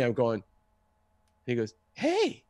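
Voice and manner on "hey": put-on drunk dude. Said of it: "acted like a drunk dude".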